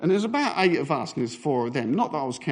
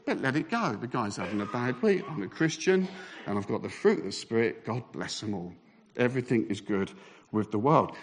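soft, lower self-soothing; forced serenity; 3 semitones lower, 5 dB quieter than usual. Acted. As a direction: talk yourself down piously and softly. Calming himself while inwardly seething.

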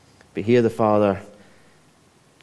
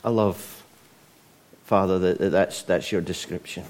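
hushed closing prayer. Real, not acted. Leads a prayer.

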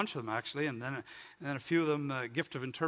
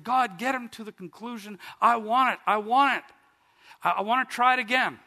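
raised, punchy, impatient plea; mildly hammed-up eagerness to get there; eager pleading; 6 semitones higher, 6 dB louder than usual. Preacher retells begging God to reach the conclusion, eager.

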